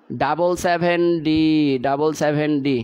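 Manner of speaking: drawn out slowly so students can follow; teacher slowing down to dictate the answer; slow and deliberate. Shown as a demonstration. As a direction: spell out double seven D slowly for the class. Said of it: "আমি আরও আস্তে পড়াচ্ছি".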